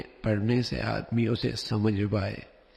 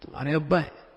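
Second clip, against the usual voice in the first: raised-pitch disbelief; surprised; 4 semitones higher, faster than usual. Shown as a demonstration. Showing amazement that this is the child's father, surprised. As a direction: demonstrate astonishment, pitch lifted. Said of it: "حیرت کا اظہار ہے".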